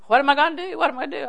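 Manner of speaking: mildly hammed-up worried mother; mock panic. Mother frets over her child's failing grade, mock panic. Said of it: "screaming, hollering, carrying on".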